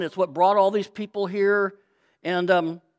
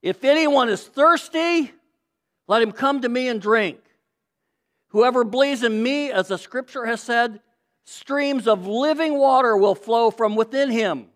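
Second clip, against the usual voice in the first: loud proclaiming voice; 3 semitones higher, 4 dB louder than usual. Acted. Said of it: "said in a loud voice".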